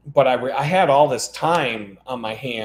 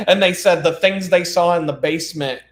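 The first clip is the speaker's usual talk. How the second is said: laughing; 4 semitones higher, 5 dB louder than usual. Real, not acted. Laughing through story.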